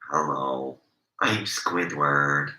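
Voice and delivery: light pinched-nose Squidward, slowed right down; a lightly voiced Squidward hello; hint of Squidward, nose held, very slow. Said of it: "I'll just do that myself like this".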